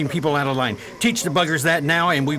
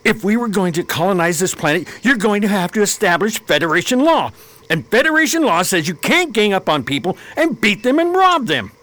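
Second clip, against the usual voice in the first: heated; 4 semitones higher, 3 dB louder than usual. Acted. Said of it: "Calm down, Luis".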